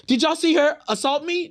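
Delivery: high, loud hammed-up playing victim; mock victim. Mocking a rapper playing victim after a hit back, high hammed-up whine. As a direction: mimic her crying foul. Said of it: "now you like".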